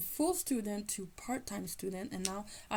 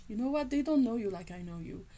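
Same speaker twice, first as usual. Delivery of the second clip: teacher quoted; 2 semitones higher, 4 dB louder, faster than usual. Retold or imitated. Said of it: "And he said".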